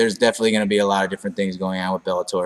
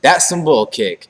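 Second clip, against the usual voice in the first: catchphrase; 3 semitones higher, 4 dB louder than usual. Shown as a demonstration. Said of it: "I have a monotone voice".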